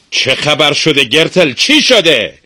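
high-pitched worried questioning; surprised and worried. A narrator's reading. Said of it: "با تعجب و نگرانی پرسید".

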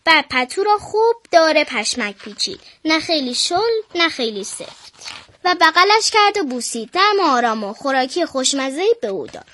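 put-on a girl reading a bedtime picture book aloud; children's story reading. Girl reading a bedtime story to listeners, storybook voice. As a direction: read it like a storybook for little ones.

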